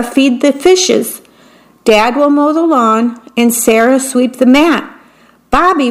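dish out the chores briskly; bossy mom. Acted. Mother hands out chores.

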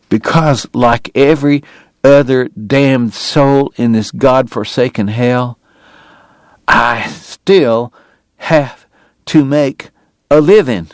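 fighting back tears on every word; a man close to weeping; voice breaking. Acted. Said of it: "His voice broke".

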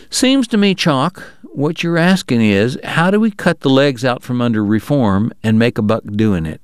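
a hint of a slick businessman steering the table; Bob, scheming. Bob at the poker table, mildly sly voice.

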